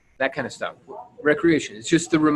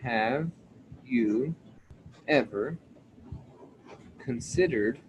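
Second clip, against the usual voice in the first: each word set apart by long pauses; slow word-by-word opener; 6 dB quieter, slower than usual. Shown as a demonstration. Coach spelling out his go-to opener, slow and spaced. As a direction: say it slowly, one word at a time. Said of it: "then my opener is".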